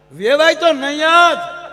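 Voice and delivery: slow, loud, drawn out for the joke; emphatic punchline. Real, not acted. To the audience, slow loud punchline. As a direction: lean hard on the final no.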